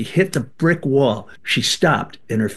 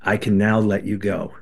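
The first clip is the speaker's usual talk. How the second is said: soft blessing; 5 semitones lower than usual. Retold or imitated. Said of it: "silently blessed him and said".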